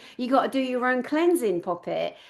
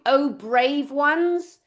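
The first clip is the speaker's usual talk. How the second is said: sarcastic; 3 semitones higher, much slower than usual. Real, not acted. Sarcastic jab at arriving men.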